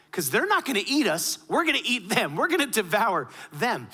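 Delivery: rally the people with punchy conviction; acted-out defiant pep talk; rallying cry. Acting out Joshua's rallying cry.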